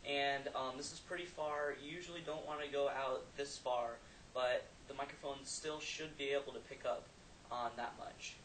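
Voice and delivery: far from mic. Real, not acted. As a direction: talk from fifteen feet off mic. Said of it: "now I'm fifteen feet away".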